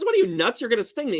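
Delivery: incredulous frog. Acted. Frog refusing the scorpion a ride, lightly voiced disbelief. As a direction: play a frog balking at the request. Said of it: "And he goes".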